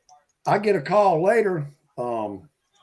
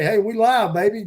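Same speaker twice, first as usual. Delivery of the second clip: hype stream intro; 5 semitones higher than usual. Retold or imitated. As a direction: pump up the live viewers. Livestream greeting hype.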